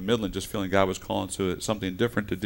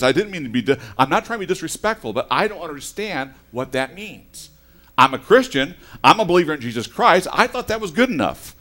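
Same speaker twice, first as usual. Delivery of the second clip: worked up; 5 semitones higher, 7 dB louder than usual. Retold or imitated. Retold heated phone call.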